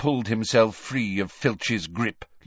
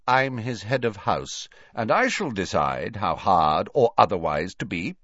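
curtly. Acted. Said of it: "said Snape curtly".

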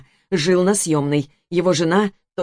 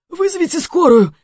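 high, loud demand for an ambulance; frantic shout; 11 semitones higher, 5 dB louder than usual. Acted. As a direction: yell it in panic. Dying man demanding ambulance. (истошный крик)

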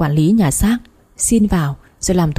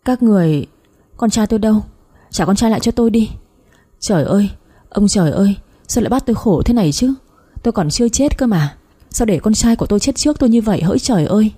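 mildly frantic, slightly raised lament; distraught; 3 semitones higher than usual. Acted. Mother realising her son is dead, in understated distraught pleading. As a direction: plead and wail with restraint. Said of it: "càng khiến bà Nhàn như điên dại".

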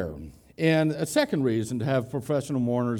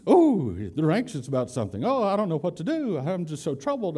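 lightly voiced worrier, a touch higher; mock anxious fret; 3 semitones higher than usual. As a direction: play a hand-wringing worrier, half in jest. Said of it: "someone who's anxious".

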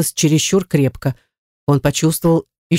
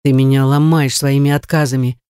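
usual speaking voice

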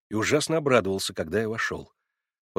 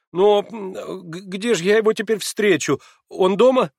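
высоко и громко, сбивчиво; запинайся в тревоге; растерянный Алёша; 10 semitones higher, 7 dB louder than usual. A narrator's reading. (Алёша растерянно спрашивает, запинаясь)

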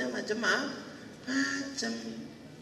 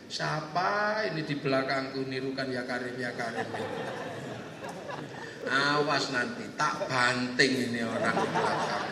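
very low, menacing grumble; growing angry; 11 semitones lower, 3 dB quieter than usual. Acted. Pilgrim warning the mimic behind him, low and annoyed. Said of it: "ini tambah marah ini".

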